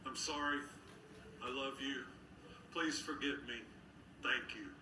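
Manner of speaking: a new beginning, said in joy; joyful. Shown as a demonstration. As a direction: say it with a glad, bright heart. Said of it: "from a place of joy".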